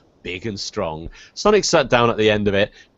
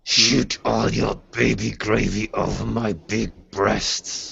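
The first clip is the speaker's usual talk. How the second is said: slow, strained husky throat voice; mock sexy gritty voice; slower than usual. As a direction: ham it up, rasping slowly. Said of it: "all the characters are gonna have to talk like that".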